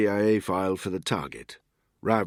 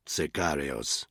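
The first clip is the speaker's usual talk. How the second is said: put-on sicarios in a crisp Spanish accent, slow and lower: see-KAH-ree-os; 4 semitones lower, 4 dB quieter, slower than usual. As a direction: roll it out like a native Spanish speaker, sicarios. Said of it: "in an excellent Spanish accent".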